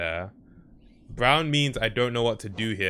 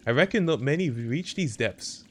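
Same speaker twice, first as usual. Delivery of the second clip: mock Canadian accent; 5 semitones higher than usual. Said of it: "you're saying map guy Canadian".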